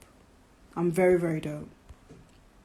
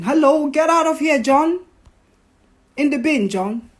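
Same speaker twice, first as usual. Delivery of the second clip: mock dismissal; 6 semitones higher, 3 dB louder than usual. Mock dismissing the partner John.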